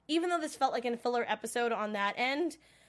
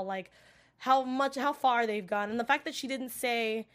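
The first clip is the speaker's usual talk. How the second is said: ordinary talk, nothing marked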